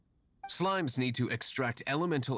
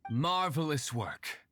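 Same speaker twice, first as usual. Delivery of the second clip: posh praise; 3 semitones higher, slower than usual. Acted. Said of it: "Marvelous! Jolly ho! Spiffing!".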